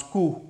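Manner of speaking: कू said as plain koo, p silent; कू demonstrated as koo, no final p; correct pronunciation. Shown as a demonstration. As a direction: model कू as koo for the class. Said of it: "ऐसे करना pronounce".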